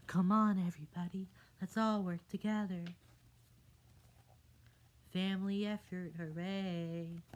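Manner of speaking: high, loud rallying shout; rally everyone with excitement; excited cheer. Acted. Tadpole rallies the family.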